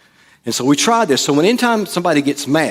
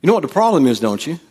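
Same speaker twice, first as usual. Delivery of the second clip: raised teasing question; knowing jab; 3 semitones higher, faster than usual. Shown as a demonstration. Preacher repeating the argument line. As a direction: lob it like a jab. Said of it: "if somebody said that to you".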